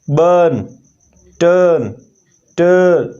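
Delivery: बर्न, टर्न with a held long er; long er vowel demo. Shown as a demonstration. Teacher modelling the long er for students. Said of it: "ये इसकी long sound आ जाती है".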